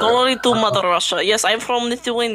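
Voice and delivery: lightly put-on Russian accent. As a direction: joke in a mock Russian accent. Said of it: "some Russian tips about his accent".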